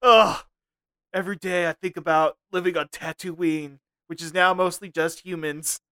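mock-serious angst, then a showy goodbye; Reboot Watto. Watto signs off his episode to co-host, lightly voiced. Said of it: "I'm Reboot Watto".

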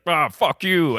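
mock-angry Miles O'Brien, bad Irish; bad Irish accent. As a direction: curse in a badly faked Irish accent. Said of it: "That's a bad Irish accent".

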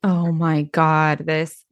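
slow, incredulous groaning remark; amused exasperation. Real, not acted. Listener hearing Sam shrug it off, exasperated. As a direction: drag it out in disbelief. Listener despairing at Sam's nonchalance.

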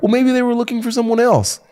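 lightly voiced dismissive woman; a hint of a naive girlfriend; high mock woman voice.

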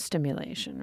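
unvoiced seductive whisper. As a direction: breathe it out. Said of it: "this is my Dipsea voice".

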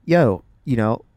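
burping while talking; talking through burps. Real, not acted. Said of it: "sorry, I keep burping".

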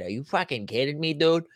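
put-on a mild first pass at a Boston accent; lightly Boston, almost his own voice; understated Boston accent. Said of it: "That's Boston".

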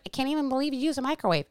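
quick, snooty put-on viewer; mimicking a judgmental follower, fast and mocking; mock judgy viewer. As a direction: rattle it off like a prissy critic. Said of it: "some of you may be like".

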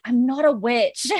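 laughing through the line. Retold or imitated. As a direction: giggle while quoting.

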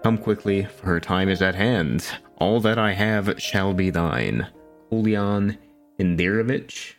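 solemn archaic letter read; formal letter reading. Acted. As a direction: read it like a grand plea. Reads quest letter aloud.

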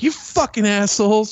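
mock angry buddy. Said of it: "he's like".

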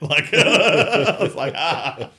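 high, loud laughter breaking up the words; real laughing fit. Real, not acted. Telling how his friend gloated, laughing hard. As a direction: crack up helplessly mid-sentence.

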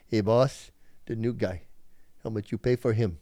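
light Latin American accent, retold joke; lightly voiced Latin American accent. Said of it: "a Latino accent calls his boss and goes".

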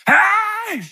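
excited churchgoer greeting like Tigger. Retold or imitated. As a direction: bounce in like Tigger. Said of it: "like Tigger".

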